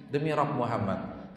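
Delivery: Aisyah content. Retold or imitated. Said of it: "Aisyah kalau lagi senang".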